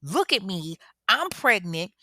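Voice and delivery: acted angry insistence; moderately heated retold protest; pissed off. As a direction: push back forcefully, word by word. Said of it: "rage, you know, Tasha is pissed".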